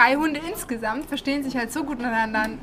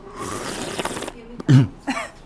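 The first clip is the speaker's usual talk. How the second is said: breathy slurp into the mic; slurping noise; 10 semitones lower than usual. Real, not acted. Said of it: "Bisschen A S M R hier".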